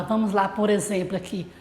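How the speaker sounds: ordinary talk, nothing marked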